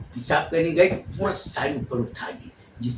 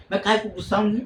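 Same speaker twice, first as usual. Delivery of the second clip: teasing high denial; 6 semitones higher, faster than usual. Acted. Bhabhi's playful denial of anger.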